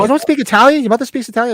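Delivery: high, loud disbelief; incredulous. Retold or imitated. Man retells asking a friend about Italian, incredulous. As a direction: pitch way up in mock disbelief. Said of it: "So I was like".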